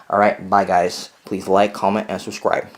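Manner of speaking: talking while chewing gum. Real, not acted. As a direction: say it around a wad of gum. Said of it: "And I'm chewing gum, so that's why I sound like that".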